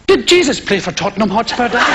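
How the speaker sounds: lightly voiced prim English son; Nigel Junior. Son questioning preacher father, mock-innocent affected voice. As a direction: ask innocently as the preacher's boy. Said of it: "my son, Nigel Junior".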